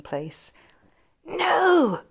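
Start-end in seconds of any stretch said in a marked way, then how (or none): 1.2-2.0 hissed no. Acted. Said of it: "George hissed".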